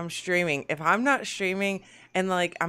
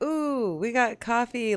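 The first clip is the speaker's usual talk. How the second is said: retold excitement; 5 semitones higher, slower than usual. Host retelling her coffee delivery to listeners, excited. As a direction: act out being pleased at a surprise delivery. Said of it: "I was really excited".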